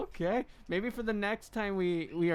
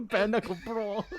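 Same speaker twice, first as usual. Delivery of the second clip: put-on British accent echo through laughter; mock British accent; 2 semitones higher than usual. Echoing the mock British phrase.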